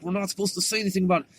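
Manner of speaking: fast, soft, under the breath; hurried hushed rebuke from the older brother; rushed hushed warning. Retold or imitated. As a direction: rattle it off quietly so no one hears. Older brother hushing his sibling.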